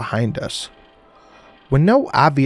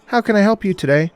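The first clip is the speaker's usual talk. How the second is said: higher, bright-toned Southern receptionist; cheerful southern accent; 8 semitones higher than usual. A narrator's reading. Receptionist answering the phone, cheerful Southern accent. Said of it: "cheerful voice and a southern accent".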